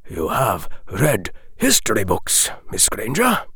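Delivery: put-on measured, grave old wizard. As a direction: speak as a wise old headmaster. Dumbledore continues speaking.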